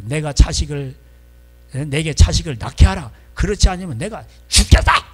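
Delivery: loud scripture quote building to a shout; angry outburst. Acted. Rachel demanding children from Jacob, angry, building to a shout. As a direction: read it as a demand exploding at the end. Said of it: "막 성질을 내는 거예요".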